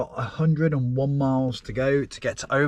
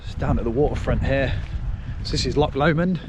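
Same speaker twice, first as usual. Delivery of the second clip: wind on mic. Real, not acted. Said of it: "Excuse the wind noise".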